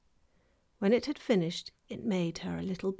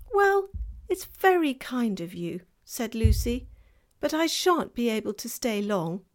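put-on girl's voice; 4 semitones higher, 5 dB louder than usual.

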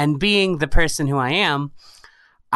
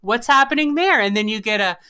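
rising, higher-pitched eager speculation; passionate; 5 semitones higher than usual. Real, not acted. Storyteller to friend about imagined game characters, passionate. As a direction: get carried away imagining her backstory. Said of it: "the passion in your voice".

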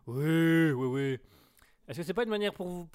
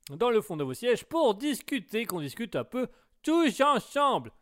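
hammed-up host call; 6 semitones higher, 4 dB louder than usual. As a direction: stretch it out like a show host. Hammed-up radio host welcome to listeners.

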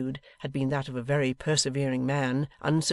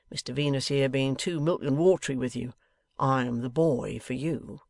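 a hint of a sneering taskmaster; bullying Wegg. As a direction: draw out the orders to browbeat him.

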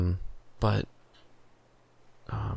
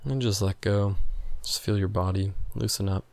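calm, unhurried breathing guide; guided relaxation. Acted. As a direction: talk them gently into letting go. Guiding a breathing exercise.

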